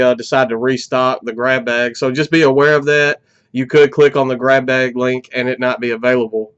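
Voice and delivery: congested, short of breath. Real, not acted. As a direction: talk stuffy and winded. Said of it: "I'm sorry if it sounds like I'm out of breath".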